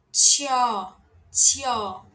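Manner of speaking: "Tchó" as "tchió", puffed, with open O; aspirated IÓ glide. Shown as a demonstration. Teacher modelling the vowel Ió after aspirated TCH, puffed. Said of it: "Com a vogal Ió".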